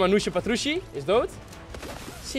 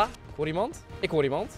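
whispering while hiding; 4 semitones lower, 8 dB quieter than usual. Real, not acted. Seeker hears someone, hushed.

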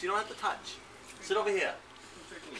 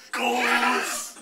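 shouted goose call. Real, not acted. Duck duck goose game call.

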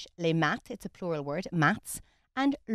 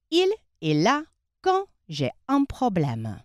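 measured French phrases for repeating, pausing between each; slow model reading; 4 dB louder than usual. Shown as a demonstration. Teacher reads model phrases aloud for oral exam practice. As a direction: read each phrase clearly for learners. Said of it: "go through it once with just the pronunciation".

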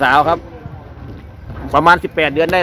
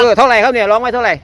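loud, higher-pitched question; speaking up loudly; 6 semitones higher, 5 dB louder than usual. Real, not acted. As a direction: ask it loud for poor hearing. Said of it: "ขออนุญาตพูดดังๆ". (ถามเสียงดังให้ได้ยิน)

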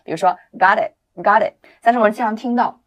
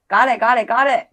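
impatient got it; 4 semitones higher, 4 dB louder than usual. Retold or imitated. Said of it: "你别说了".

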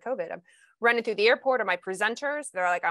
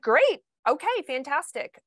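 mock enthusiasm; 7 semitones higher, slower than usual. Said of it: "And I'm like".

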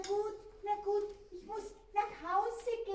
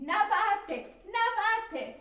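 lauter, gespielt drohender Ausruf; gespielte Drohung; 6 dB louder, slower than usual. Pretend. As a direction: droh ihm halb im Spaß. Droht dem Räuber Hotzenplotz. (laute, gespielte Drohung)

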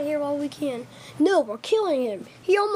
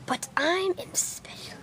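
whispered boast; 3 semitones higher, 6 dB quieter, slower than usual. Acted. Snivy boasts to the birds.

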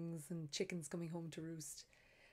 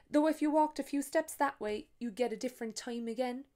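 Maureen, joking; 6 semitones higher, 10 dB louder than usual. Acted. Maureen jokes to tourists.

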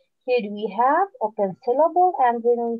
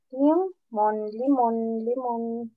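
lemon repeated with lem and mon drawn apart; lemon in syllables; much slower than usual. Shown as a demonstration. Teacher prompting a pupil to divide, lemon sounded out by syllable. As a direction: sound out lemon slowly, leaning on the m. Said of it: "How can we divide the word?".

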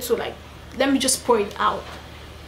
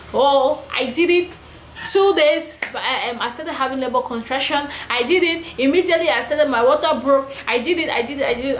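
raised voice, piling up claims; excited commenters. Retold or imitated. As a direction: imitate eager commenters chiming in. Voicing excited commenters under a video.

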